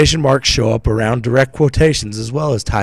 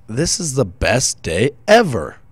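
enthusiastic; 4 semitones higher, 4 dB louder than usual. Shown as a demonstration. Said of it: "to show enthusiasm".

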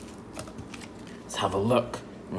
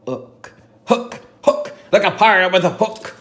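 excited; 8 semitones higher, 6 dB louder than usual. Pretend. Excited real word.

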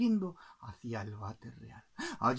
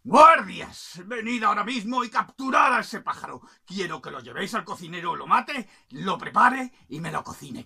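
loud royal command; furious king; 4 semitones higher, 11 dB louder than usual. Acted. King orders guards to capture the bird, loud angry command. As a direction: summon the guards with force. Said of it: "Así que el rey".

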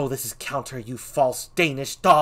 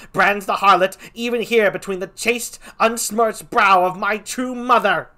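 higher and much louder, furious; raging Laertes; 5 semitones higher, 8 dB louder than usual. Acted. Laertes raging at the king over his father, furious. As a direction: hurl it at the king.

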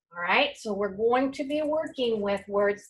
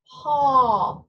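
loud call; 4 semitones higher, 6 dB louder than usual. Real, not acted. Teacher calls out answer.

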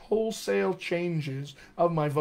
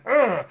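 louder, higher "uh" of drive; effortful grunt; 5 semitones higher, 6 dB louder than usual. Acted. Coach acts being ruthless in a scene, effortful grunt. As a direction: grunt it out with sudden force. Acting out relentless pursuit in scene.

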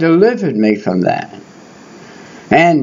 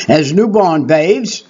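solemn scripture reading. Shown as a demonstration. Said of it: "read this verse".

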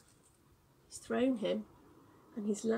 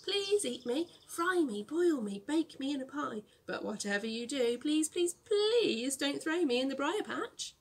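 sing-song pleading; 3 semitones higher, 3 dB louder than usual. Acted. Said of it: "sang Brer Rabbit".

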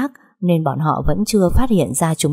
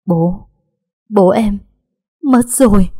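building from halting to high, louder break; words breaking into tears; tearful; 4 semitones higher, 4 dB louder, slower than usual. A narrator's reading. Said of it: "Nỗi tủi thân trong lòng".

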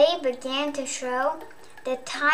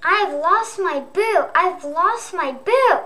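upset little ghost; 3 semitones higher, 3 dB louder than usual. Acted. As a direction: wail it like a frightened little ghost who lost her boo. Little Ghost panics over lost boo.

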